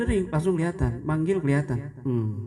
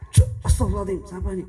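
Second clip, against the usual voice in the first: annoyed outburst; 5 semitones higher, 4 dB louder, much faster than usual. Retold or imitated. Annoyed worshipper, phone rings.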